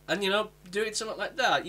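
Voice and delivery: usual speaking voice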